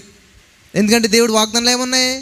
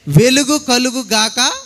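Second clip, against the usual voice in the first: God's slow decree; much slower than usual. Retold or imitated. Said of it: "అని పలికెను".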